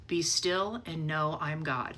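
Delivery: slow, soft, settled calm; a still, reassuring voice of God, slowly; calm divine voice. Retold or imitated. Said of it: "all I heard was".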